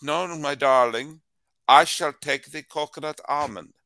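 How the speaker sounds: put-on grand, silly Spanish-into-Russian accent; generic European accent. The lover answers in the ad bit, hammed-up generic European accent. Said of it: "what accent did I suddenly create for this strange line read".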